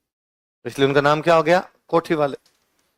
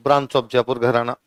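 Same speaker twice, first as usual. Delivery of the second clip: slow dictation; 3 semitones lower, slower than usual. Shown as a demonstration. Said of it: "लिखो पटियाला के नीचे".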